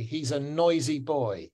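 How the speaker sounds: put-on clean "noisy boy" with no w glide; correct English pronunciation. Shown as a demonstration. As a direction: model "noisy boy" with a clear "oi". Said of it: "how to say it correctly".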